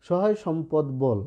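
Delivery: slow, measured line with বল ending on l; corrected closed ending. Shown as a demonstration. Teacher demonstrating the poem's pronunciation, slow, বল closed on l. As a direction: recite slowly, no vowel after বল. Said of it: "উচ্চারণের দিক থেকে কিন্তু আমি এখানে বলছি".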